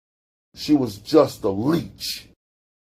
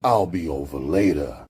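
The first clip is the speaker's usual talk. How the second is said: low and even; calm; 8 semitones lower than usual. Acted. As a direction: answer coolly, unbothered. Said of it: "he calmly replied".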